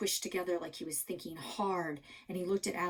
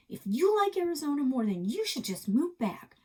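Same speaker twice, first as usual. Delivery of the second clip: angry outburst; 8 semitones higher, 7 dB louder than usual. Acted.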